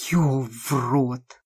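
put-on low slow drunken curse; a slurred, drunken oath; drunk swearing. Drunk Maria curses under the intruders' noise, low and slow.

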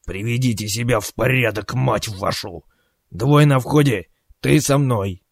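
firm officer's order to his squad; commanding. Acted. Captain orders his men before the raid, commanding. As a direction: give brisk orders, leaning on the last ones.

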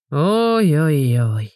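very slow drawn-out groan. A narrator's reading. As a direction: moan as you haul yourself up. Igor rises groaning.

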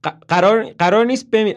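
Toby frantic as she fades; frantic plea. Acted. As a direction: stumble and beg her to stay. Repeats more frantically.

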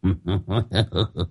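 put-on drunken chuckle. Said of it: "dở cái giọng lè nhè".

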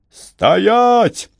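high shouted halt. A narrator's reading. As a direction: yell at them to freeze. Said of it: "закричали римляне". (громкий окрик)

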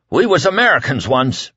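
high pleading cry; cried. A narrator's reading. Whitney crying out to the silent crowd. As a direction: cry it out with shaking conviction. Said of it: "Whitney cried at last".

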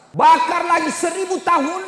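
high, loud shouted sermon line; thundering preaching. Real, not acted. Preacher thundering about hellfire.

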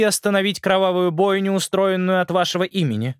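a hint of a cold, commanding queen; stern queen voice. Black Widow proclaims.

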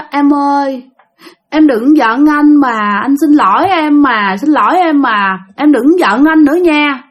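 mildly imitating a tipsy husband begging; drunken pleading. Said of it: "Thì nghe ổng năn nỉ, nài nỉ". (giọng chồng xỉn năn nỉ, nhập vai nhẹ)

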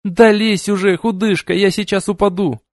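put-on high, strained hiss of a girl about to fall; hissing at her friend from below; hissed plea. A narrator's reading. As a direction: urge her on through clenched breath. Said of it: "Мия зашипела, как змея".

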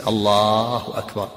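"الله أكبر" drawn out slowly, then a stop; slow, separated takbir. Shown as a demonstration. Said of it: "يقول ساكتا".

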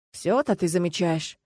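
slow, needling sarcasm; sarcastic. Acted. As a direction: drawl it out to tease her. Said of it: "Хватит язвить". (медленно, с язвительной ноткой)

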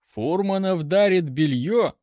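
acted incredulous general; surprised. A narrator's reading. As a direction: query it in disbelief. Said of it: "удивился генерал".

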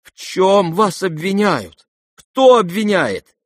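high, loud, slow alarmed questions. A narrator's reading. Prince to Aglaya, alarmed and loud. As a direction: demand who accuses her.

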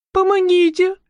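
high, pleading cry; sobbing plea. Acted. Marusya begging the newcomer for help, sobbing. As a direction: beg for help through sobs. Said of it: "всхлипывая, взмолилась Маруся".

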